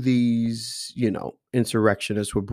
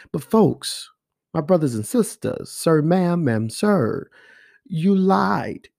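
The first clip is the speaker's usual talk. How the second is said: nice yelling; 5 semitones higher, slower than usual. Pretend. Commentator nicely yelling at conservatives, mild mock yell. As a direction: scold them gently, like a fond friend raising his voice. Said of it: "this is my yelling voice".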